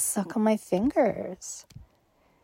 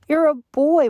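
contemptuous; 7 semitones higher, 7 dB louder, faster than usual. Acted. Mocking the crying partner.

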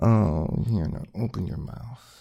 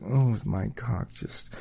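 whispering. Acted. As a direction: hush it, intimate and teasing. Whispered description.

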